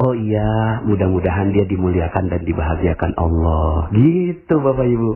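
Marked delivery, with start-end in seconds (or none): 0.1-3.9 kindly blessing. Acted. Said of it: "ketika ada yang ngomong".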